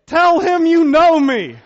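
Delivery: high, loud, slow desperate yell. Retold or imitated. Husband yells to wife as guard approaches, desperate shout. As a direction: yell it at her, pleading. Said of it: "I'm yelling at my wife".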